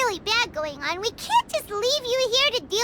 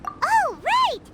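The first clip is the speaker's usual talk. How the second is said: sudden realization; 8 semitones higher than usual. Acted.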